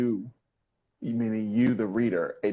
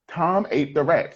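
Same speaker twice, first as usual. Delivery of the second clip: "Tom ate the rat" pitched higher, with a lift on Tom; excited exclaiming; 6 semitones higher, 3 dB louder than usual. Shown as a demonstration. Teacher contrasts a statement with an exclamation, excitedly. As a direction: exclaim it like shocking news. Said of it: "So here we are excitedly exclaiming".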